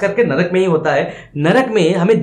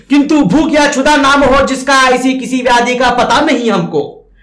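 higher, louder stern retort; angry ghost; 7 semitones higher, 5 dB louder than usual. Acted. Ghost retorting angrily to Yamraj. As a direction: snap back hard and sharp. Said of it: "गुस्से में, कठोर होकर, सख्त होकर".

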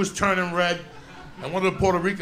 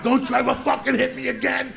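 retold angry cry, pitched higher; tearful outburst; 4 semitones higher than usual. Boy to the nun who hit him, tearful outburst. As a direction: act out an upset, high-pitched outburst. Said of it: "And I'm just crying".

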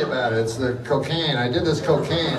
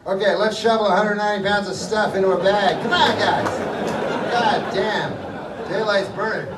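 brisk crash crew boss; 5 semitones higher than usual. Retold or imitated. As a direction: hurry the crew along, pushy and offhand. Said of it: "they go".

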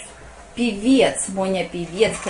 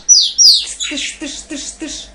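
gun sounds; 6 semitones higher, 4 dB louder, much slower than usual. Shown as a demonstration. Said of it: "как Моня стреляет красиво?".

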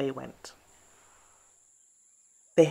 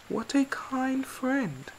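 smiling; 10 semitones higher, slower than usual. Acted. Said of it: "smiled Bear".

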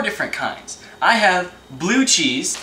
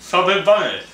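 cheeks stuffed full; 4 dB louder than usual. Real, not acted. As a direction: mouth stuffed with candy. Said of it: "put a Snickers in your mouth and then you say".

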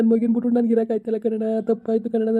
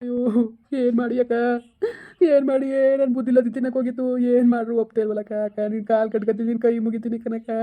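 tearful pleading. Acted. Distraught husband begging elder sister to persuade his wife, tearful pleading. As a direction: beg helplessly, close to tears. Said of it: "ಈಗ ಅಳ್ತಾ ಕುತ್ಕೊಬಿಟ್ಟಿದೀಯಲ್ಲ".

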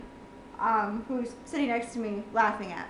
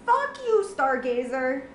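angry curse; slower than usual. Real, not acted. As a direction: spit it out at the game. Cursing the game.

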